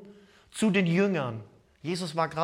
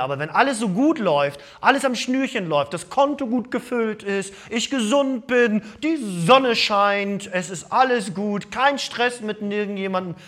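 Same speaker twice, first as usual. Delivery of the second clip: upbeat; 4 semitones higher, 5 dB louder than usual. Acted. Pastor describes carefree good times.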